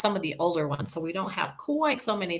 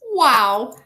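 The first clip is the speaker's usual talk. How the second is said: loud, high, excited "Wow"; teacher showing an exclamation; 6 semitones higher, 11 dB louder than usual. Shown as a demonstration. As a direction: burst out with Wow. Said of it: "your voice has some excitement in it".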